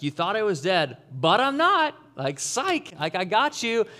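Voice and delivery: gleeful, rising to a high loud psych; mock gotcha taunt. Pretend Jesus gloating at his enemies, high loud taunt. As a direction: tease the enemies like a triumphant prankster.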